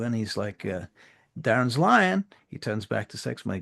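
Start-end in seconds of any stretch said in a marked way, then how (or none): 1.4-2.2 very high, loud incredulous protest; indignant runner. Acted. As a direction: squawk in disbelief. Runner accusation.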